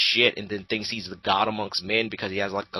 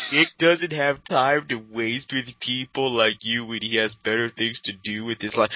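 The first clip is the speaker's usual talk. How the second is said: mock troll. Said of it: "those comments he left".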